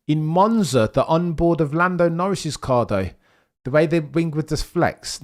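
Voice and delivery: rising excitement over the onboard; excited. Real, not acted. Excited about Lando's flexing wing.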